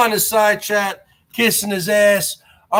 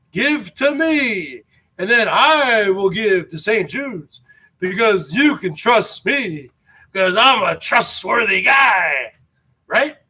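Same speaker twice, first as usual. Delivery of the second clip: mocked scammer pitch. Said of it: "His business plan was".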